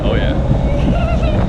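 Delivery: very high, loud thrilled shout; excited yell. Real, not acted. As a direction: whoop it out mid-race. Racing go-karts, thrilled.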